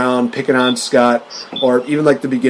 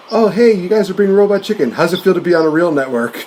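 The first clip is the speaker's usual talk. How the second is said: mocking jab; 6 semitones higher than usual. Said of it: "random shots like".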